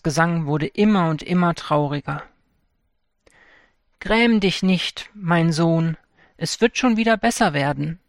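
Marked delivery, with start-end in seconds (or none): 4.0-8.0 comforting mother. Acted. Mother to her son, gently consoling. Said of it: "tröstete ihn die Mutter".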